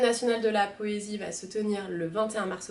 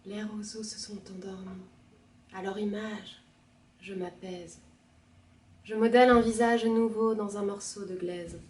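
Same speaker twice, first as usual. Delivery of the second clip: poem reading. Acted. Reader by the sleeping reeds, calm poetic recitation.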